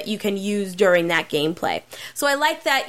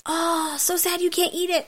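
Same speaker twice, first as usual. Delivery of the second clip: high sing-song taunt; 7 semitones higher than usual. Pretend. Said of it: "Maybe I'll say that next time".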